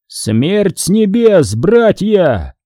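high, slow rallying battle cry; shouting. Acted. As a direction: call the brothers to charge. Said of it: "прокричал Сикарий".

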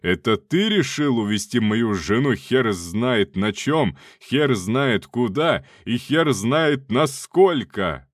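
slow, loud furious roar. Acted. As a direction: bellow down the phone. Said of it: "перешёл на рёв".

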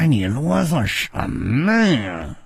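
slow, drawn-out defiance; defiant captive figure. Acted. Character daring a killer to get on with it, defiant. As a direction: draw the words out in defiance.

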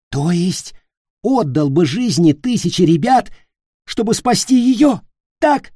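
high, loud pointed question; angry challenge. Acted. Nick challenging Peter, high and loud. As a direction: throw it in his face.

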